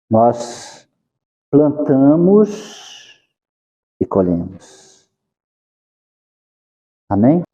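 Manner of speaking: ordinary talk, nothing marked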